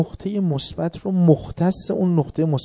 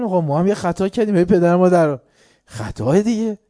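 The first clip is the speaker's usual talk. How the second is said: pleading loudly; 4 semitones higher, 8 dB louder than usual. Retold or imitated. Second soldier answering the officer.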